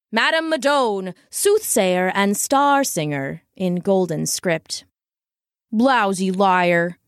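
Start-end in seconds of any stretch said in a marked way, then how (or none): 0.1-3.4 sign read grandly. Acted. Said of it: "it read". 5.7-7.0 muttered insult. Acted. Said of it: "he said to the wagon".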